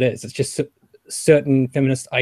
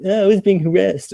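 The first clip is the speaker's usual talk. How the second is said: higher-pitched imitation of an upset woman; retaken victim quote; 7 semitones higher, 3 dB louder than usual. Woman confiding she was harassed, acted as a retake. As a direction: redo her complaint in a raised voice. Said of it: "Sorry, I said that in a kind of sarcastic way".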